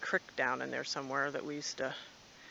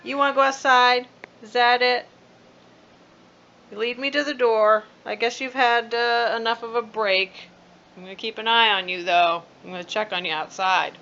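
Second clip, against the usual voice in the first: pet talk; 5 semitones higher, 13 dB louder than usual. Real, not acted. Talking to the cat.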